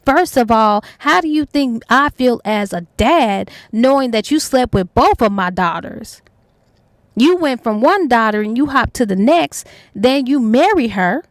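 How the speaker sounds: retold indignant dad's rant, stressed words swinging up; going off. Father confronting his daughters' lover, retold indignant telling-off. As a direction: tell someone off as an outraged father, mildly acted. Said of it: "the father went off".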